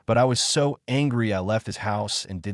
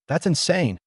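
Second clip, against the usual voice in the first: sharp, high burst of disbelief; shocked outburst; 8 semitones higher than usual. Retold or imitated. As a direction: fire it back at him, appalled. Confronting biological father's stalking.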